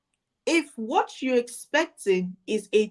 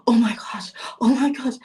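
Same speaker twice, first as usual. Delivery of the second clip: breathy panicked oh my gosh, half whispered. Retold or imitated. Client panicking over a booked call, mock panicked whisper. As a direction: mimic a client on the edge of a panic attack. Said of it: "she almost went to panic attack".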